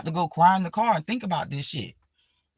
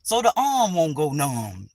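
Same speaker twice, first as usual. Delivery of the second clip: slow dramatic line; 4 dB louder than usual. Shown as a demonstration. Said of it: "It's for entertainment".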